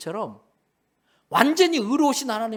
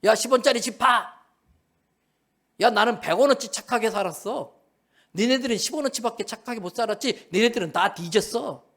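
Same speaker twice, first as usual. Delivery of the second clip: higher-pitched boastful putdown; mock swagger; 4 semitones higher, 4 dB louder than usual. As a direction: act the big shot, lording it over others. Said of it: "막 그렇게 폼 잡고 있는데". (폼 잡고 으스대는 흉내)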